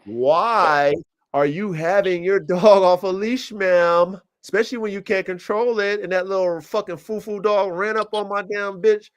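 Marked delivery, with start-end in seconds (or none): 0.1-6.3 slowed, pointed reproach; scolding the neighbor. Retold or imitated. Retelling how he scolded the lady with the loose dog, slow and pointed. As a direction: talk down to her, word by word.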